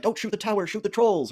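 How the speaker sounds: high, loud shout to the troops; shouted battle order. Retold or imitated. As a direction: bellow orders from the wall. Retells Gandalf shouting orders from wall.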